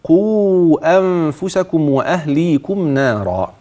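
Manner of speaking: slow tajweed recitation; Quran recitation. Shown as a demonstration. Sheikh showing where the sentence ends, recited slowly. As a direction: chant it slowly and evenly. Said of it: "أبدأ".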